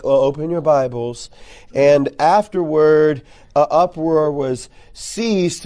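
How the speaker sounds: slow, droning mock sermon reading; dull preacher. Mocking how churches bore teens, slow droning Bible reading. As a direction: parody a boring preacher reading scripture. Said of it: "and it's like".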